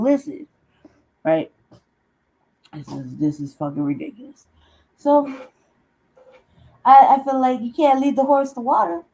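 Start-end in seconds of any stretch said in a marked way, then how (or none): 5.0-9.0 higher, louder, fed-up sigh of a line; worn out from not being heard; exasperated. Real, not acted. Exasperated, nobody listens.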